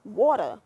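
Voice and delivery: water as wawta, r dropped; water ending in a loose uh; dialect water. Acted. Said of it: "Say it again".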